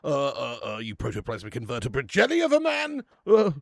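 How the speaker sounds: lightly voiced blustering politician, full of uhs; hint of a bumbling posh bluster; Boris Johnson impression. To his chat, a light take on a blustering politician. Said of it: "Sounds like something Boris would say".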